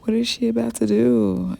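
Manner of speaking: high, eager mock surprise; imitating excited manager. Manager hearing the news on the phone, excited disbelief. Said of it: "She literally got so excited".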